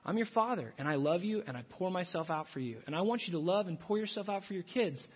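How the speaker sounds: lightly voiced loving father; calm and gentle, like a father to his son; a hint of a tender divine father; God speaking. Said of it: "And He's saying".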